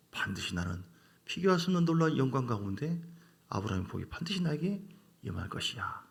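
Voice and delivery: soft, gentle comforting of oneself; reassuring yourself quietly with your own name; tender self-talk. Shown as a demonstration. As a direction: speak to yourself by name, softly and kindly. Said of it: "자기 이름 부르고".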